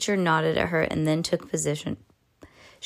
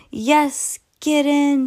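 high, loud victory shout; teacher celebrates his winning shot; triumphant cheer; 9 semitones higher, 5 dB louder, much slower than usual. Acted. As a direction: punch the air with your voice. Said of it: "said Mister Jenkins".

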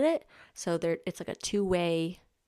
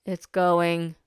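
flat exhausted reply; 5 dB louder than usual. Retold or imitated. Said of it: "And I'm like".

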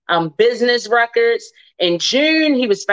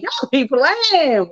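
slow teasing drawl; 5 semitones higher, much slower than usual. Real, not acted. Host teasing listeners who don't support, slow drawn-out tease. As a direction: stretch it out slowly, playfully.

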